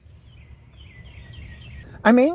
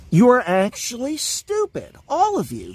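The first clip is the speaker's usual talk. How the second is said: angry; 4 semitones higher than usual. Real, not acted. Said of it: "This is what I am angry about".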